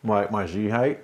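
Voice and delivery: talking through a mouthful of food; chewing while answering; mouth full. Real, not acted. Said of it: "Don't talk with your mouth full".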